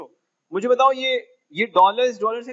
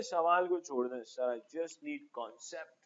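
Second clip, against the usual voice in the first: whiny student; 3 semitones lower, 12 dB quieter, much slower than usual. Retold or imitated. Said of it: "बोले".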